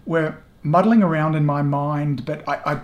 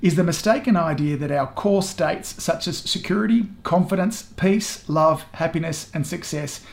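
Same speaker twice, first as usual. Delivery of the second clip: reading a quote. Shown as a demonstration. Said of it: "Here's the quote".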